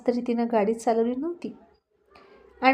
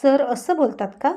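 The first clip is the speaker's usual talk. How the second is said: mildly annoyed; 3 semitones higher, 5 dB louder than usual. Acted. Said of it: "थोडीशी वैतागून म्हणाली".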